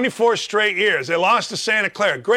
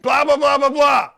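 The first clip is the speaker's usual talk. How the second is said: mock angry fan rant; 6 semitones higher than usual. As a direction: yell it like a furious Indiana fan. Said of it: "You know what you hear".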